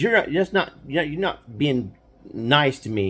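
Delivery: high, stumbling sulky accusation; pouty little brother protest; whiny kid brother. Retold or imitated. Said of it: "he would get so mad".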